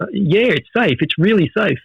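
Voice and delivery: lightly acted, anxious-to-please reassurance; mock-earnest captive trying an answer; flustered captive. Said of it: "He doesn't know what to say".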